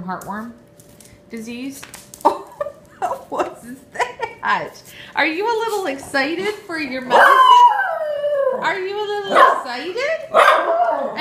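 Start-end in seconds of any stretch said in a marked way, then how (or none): 2.2-11.2 high, slow cooing pet talk. Real, not acted. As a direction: stretch it out, cooing at the dog. Cooing at excited dog.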